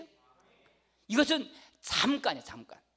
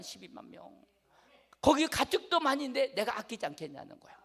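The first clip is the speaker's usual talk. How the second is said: God speaking; 4 semitones higher, 5 dB louder than usual. Retold or imitated. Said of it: "하나님께 하신 말씀이".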